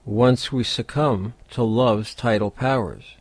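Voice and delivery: measured poem recital with pauses between phrases; poetry reading. Acted. Host reading the poem Topaz to podcast listeners, measured poetry reading. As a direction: recite it line by line, letting each image settle.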